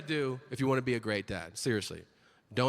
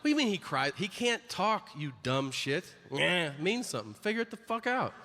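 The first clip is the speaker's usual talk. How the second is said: mock rant; 4 semitones higher than usual. Ranting at complaining dads.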